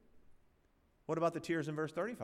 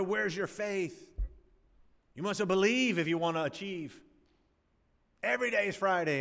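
mocking TV preacher; 3 semitones higher, 3 dB louder than usual. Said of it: "TV preachers ... would say".

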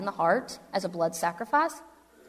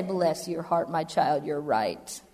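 a hint of a lowered, patronising God; mock indulgent God; 3 semitones lower, slower than usual. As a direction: lightly play God humouring a child. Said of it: "God is supposed to say".

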